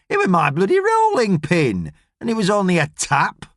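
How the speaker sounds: put-on sulky old woman brushing off the charge; indignant nan. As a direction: Nan defending her rolling pin, lightly voiced. Nan defends herself sulkily.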